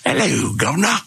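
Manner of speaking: mock cheery greeting. Repeating the friends' greeting.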